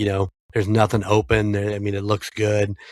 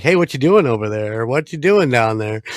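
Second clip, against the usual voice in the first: louder mock-casual ribbing; teasing; 3 semitones higher, 5 dB louder than usual. Family teasing the grandson, mock-casual and louder. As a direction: rib him with the line. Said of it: "it's like".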